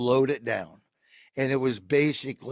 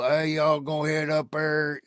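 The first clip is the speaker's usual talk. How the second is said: Larry the Cable Guy; 4 semitones higher, 4 dB louder than usual. Shown as a demonstration. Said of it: "Larry the Cable Guy is very slow".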